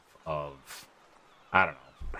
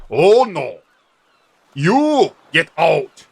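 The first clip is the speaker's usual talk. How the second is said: loud, slow Arnold-style dragonborn; Arnold impression; 7 semitones higher, 10 dB louder, much slower than usual. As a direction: drop it slow and heavy like Arnold. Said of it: "I think I went Arnold there".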